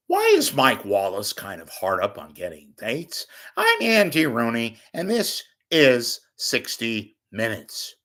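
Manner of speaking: lightly voiced Andy Rooney sign-off; a hint of a grumpy old commentator. Host closing his Andy Rooney bit for viewers. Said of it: "Quick impression of Andy Rooney".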